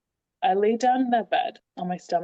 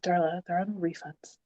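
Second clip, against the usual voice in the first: softer, unruffled midwife quote; calm, matter-of-fact; 6 dB quieter than usual. Retold or imitated. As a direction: imitate her deadpan calm, a little quieter. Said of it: "she said it so calmly and so matter of fact".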